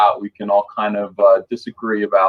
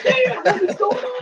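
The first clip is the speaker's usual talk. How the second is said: retold surprise. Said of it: "I was like".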